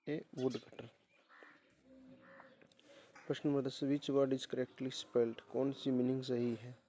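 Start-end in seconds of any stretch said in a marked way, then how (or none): 3.8-5.4 each word read out slowly and clearly; slow dictation. Shown as a demonstration. Teacher reading the question slowly to the class.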